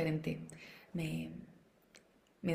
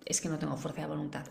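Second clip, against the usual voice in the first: resigned excuse; 2 semitones lower, 6 dB quieter, faster than usual. Retold or imitated. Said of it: "alguien que quiere perder peso".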